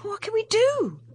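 put-on a young woman close to panic; despairing. A narrator's reading. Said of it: "shook her head despairingly".

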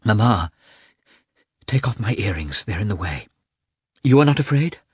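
a woman in pain asking for help; Kitty in labour. Acted.

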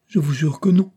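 sobbing. A narrator's reading. Barbara denying to her angry father, sobbing. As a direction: sob out a denial. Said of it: "sanglota Barbara".

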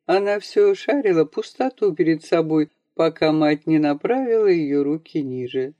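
plain reading voice

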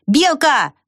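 high calling out the name; ant calling. A narrator's reading. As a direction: call across the fence. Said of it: "услышала голос муравья".

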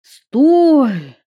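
high loud desperate stop; urgent shout. Acted. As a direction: yell to halt. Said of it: "остановил его парень".

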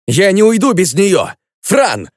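plaintive loud plea. Acted. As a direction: beg her not to leave. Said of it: "это прозвучало очень жалобно".

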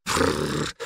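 unvoiced "frrr" noise; dismissive puff through the lips; exclaimed snort. A narrator's reading. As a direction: blow a soft, trilling "frrr". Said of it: "воскликнул Санёк".

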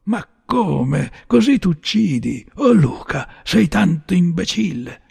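acted outcry, pitched high; crying out. A narrator's reading. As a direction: cry out in astonished reproach. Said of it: "mi gridò".

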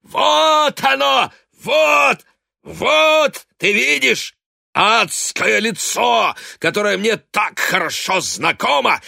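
high, loud, slow ranting; raving accusation. A narrator's reading. Drunk father raving at his wife. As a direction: hurl bitter abuse at her.

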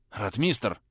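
breathy, half-voiced call of a name; exhaled call. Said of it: "выдохнул Трубецкой".

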